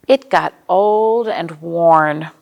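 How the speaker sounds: put-on old and worn, drawn out and emphatic; slow storybook refrain. A narrator's reading. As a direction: stretch each word out for the kids. Refrain read to children.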